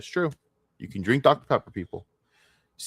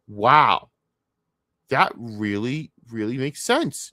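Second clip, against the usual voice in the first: slow, mock-awed fan; drawn-out fake amazement; mock gullible fan; 2 semitones higher, 4 dB louder, slower than usual. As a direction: imitate a credulous fan slowly marvelling. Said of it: "take that at face value and go".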